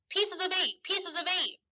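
high, shrill parrot squawk. Acted. Parrot squawking its famous line at the boy. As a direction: screech it like a parrot. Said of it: "the parrot squawked".

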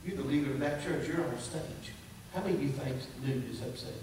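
low, quiet questioning voice; hushed, lightly voiced divine rebuke; the Lord. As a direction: drop low and soft for a searching question. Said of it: "I heard the Lord speak to me".

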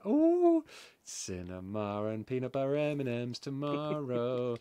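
giddy with glee about tomorrow; excited. Retold or imitated. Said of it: "I was running around going".

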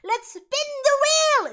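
slow, high, loud announcer call; game show host. Acted. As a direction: stretch it out for the studio crowd. Host launches the wheel.

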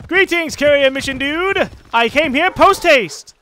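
slow, loud, high mock-grand greeting; hammed-up formal greeting. Gamer greeting the mission giver, hammed-up grand voice. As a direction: play a pompous gentleman announcing himself. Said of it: "Oh, I wish I had an accent".

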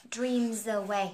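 "Dreams away" joined as dream-zaway; linked z sound. Shown as a demonstration. Teacher showing learners the linking, "Dreams away" run together with a z. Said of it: "Âm z nhá".

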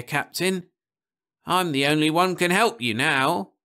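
put-on high, eager old man's voice; high, insistent old Nibley; old man begging. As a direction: push hard to convince the captain. Nibley begging, offering his breath.

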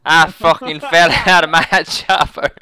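drawn-out words through laughter; very slow, cracking up at your own blunder; real laughter dragging out the words; laughing. Real, not acted. Laughing over own botched respawn.

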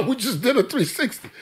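laughing through the words. Real, not acted. Host laughing at going full circle. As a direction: chuckle it out amused.

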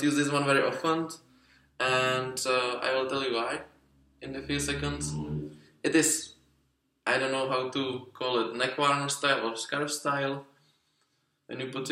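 muffled by cloth over mouth; speaking through fabric gaiter; through a face covering. Real, not acted. Seen 2: Neck gaiter covers mouth and nose throughout; lowered below chin by 13.6.

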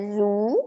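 "Suppe" split into a long ZOO, then puh; sounded-out pronunciation. Shown as a demonstration. Teacher sounds out the soup word, syllable by syllable. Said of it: "You pronounce it as".

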